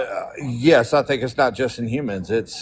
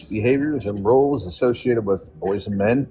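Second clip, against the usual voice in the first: reading aloud. Real, not acted. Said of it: "let me read the definition".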